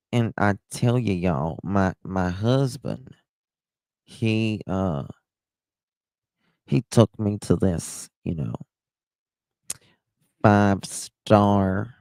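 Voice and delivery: lightly imitated Tennessee drawl; Leanne Morgan. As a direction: tell it like a Southern storyteller, a touch drawn-out. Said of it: "that's how she talks".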